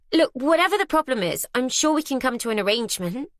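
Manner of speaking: rising panic, trying to bargain; panicky. Acted. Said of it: "my panic rising".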